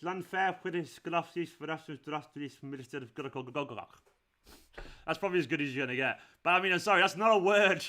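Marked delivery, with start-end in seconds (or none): 0.0-3.9 stumbling through a long Welsh place name, repeating syllables; attempting Welsh place name. Shown as a demonstration. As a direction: try to pronounce "Llanfair" the Welsh way and falter on "Graftis". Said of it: "please pronounce".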